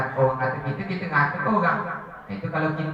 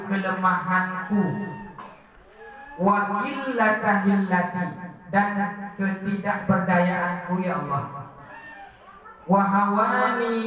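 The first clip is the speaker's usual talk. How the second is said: pleading prayer. Acted. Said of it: "Dia berdoa kepada Allah".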